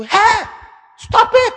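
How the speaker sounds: sudden loud shout to stop; loud mock rebuke shout. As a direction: yell it like a rebuke. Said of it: "sometimes they have to shout at you".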